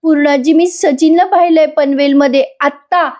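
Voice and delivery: high, tearful cry out to the family; crying loudly. Acted. Asmita to her mother and grandmother, crying out high. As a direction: call out to them through sobs, pitched high. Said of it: "आता अस्मिता रडते मोठ्याने".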